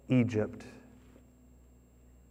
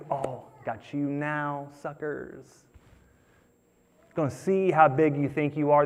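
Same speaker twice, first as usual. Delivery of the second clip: gloating revenge. Pretend. Joseph imagined taunting his brothers, gloating. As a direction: savor the payback, then demand they bow.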